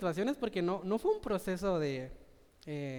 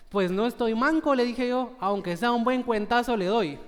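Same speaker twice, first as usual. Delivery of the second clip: defiant retort; 4 semitones higher, 5 dB louder than usual. Retold or imitated. Defiant son answering his father.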